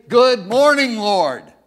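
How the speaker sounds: a loud bright good morning; cheerful greeting. Retold or imitated. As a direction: greet the Lord heartily. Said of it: "Get up in the morning and say".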